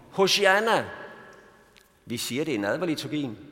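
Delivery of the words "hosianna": mock cry. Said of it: "og så råbte de".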